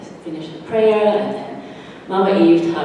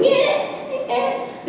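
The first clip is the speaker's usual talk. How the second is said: squeaky noise; 5 dB quieter than usual. Acted. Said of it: "the squeaky noise ... goes".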